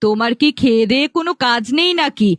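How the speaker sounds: quick, indignant questioning; angry wife. Acted. Wife confronts husband over the baby he brought, annoyed and rapid. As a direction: fire off cross questions at your husband. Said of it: "রাগ করো না গো বউ".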